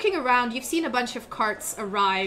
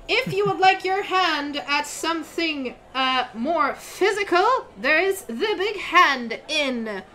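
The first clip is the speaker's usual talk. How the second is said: high, bright-voiced young crier calling out to travelers; eager town crier kid; 5 semitones higher than usual. GM as the kid crier announcing inns to travelers, high and proclaiming. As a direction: hawk the inns like a paid teenage crier.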